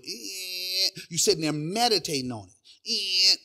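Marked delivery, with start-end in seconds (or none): 0.0-0.9 drawn-out vocal door creak; imitated door creak. Door as she walks in, imitated creak. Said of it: "door went". 2.9-3.4 drawn-out vocal door creak; imitated door creak. Door as she walks in, imitated creak. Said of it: "door went".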